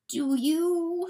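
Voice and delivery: high, loud, drawn-out question; intense pleading. A narrator's reading. Coyote glaring at the weasel, intense pleading. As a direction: press him with desperate intensity. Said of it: "still glaring at John".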